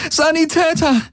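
high, urgent call for a medic. A narrator's reading. Kirai calls for a medic over the fallen soldiers. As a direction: cry out across the battlefield. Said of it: "rief sie den wenigen Golvonen zu".

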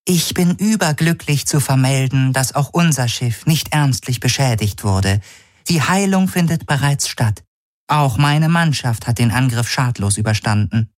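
high, strange-timbred overjoyed report; an eerie, delighted faceless being; alien voice. Acted. Neshtayo reports to the commanders, high alien voice.

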